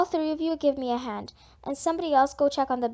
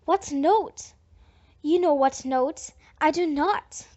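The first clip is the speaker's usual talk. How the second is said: heated quarrel; 5 dB louder, slower than usual. Acted. Girls arguing about note.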